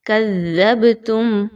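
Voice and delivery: کَذَّبْتُمْ with the ب bounced; qalqala demo. Shown as a demonstration. Teacher demonstrates qalqala on کَذَّبْتُمْ. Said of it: "با کو تھوڑا سا ہلا کے پڑھیے".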